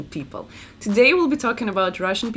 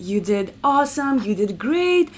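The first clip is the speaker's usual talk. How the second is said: mock-sweet feedback, lifting higher as it goes; encouraging Canadian; 4 semitones higher than usual. Canadian giving work feedback, gently encouraging. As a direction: soften the criticism with singsong politeness. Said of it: "Canadian people will be".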